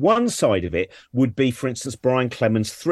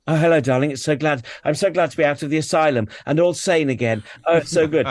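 breathy vintage purr; 4 semitones higher than usual. Retold or imitated. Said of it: "nearly all of them are the same story".

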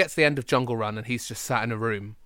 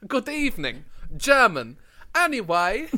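mock German officer; 6 semitones higher than usual. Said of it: "It's like".

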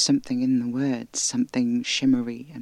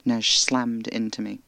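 plain reading voice

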